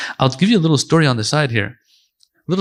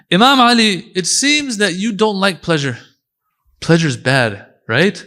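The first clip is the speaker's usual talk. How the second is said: a doubter's higher, slow challenge to Imam Ali; questioning challenger; 5 semitones higher, slower than usual. Retold or imitated. A doubter asks Imam Ali about pleasure, higher and slow. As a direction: press him with a slightly teasing question.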